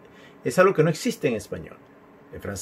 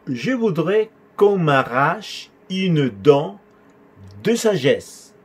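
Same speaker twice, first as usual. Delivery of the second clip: slow but connected, higher-pitched teaching delivery; measured model sentence; 3 semitones higher, much slower than usual. Shown as a demonstration. Teacher showing a patient's request, measured model sentence. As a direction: model it in one steady, measured flow.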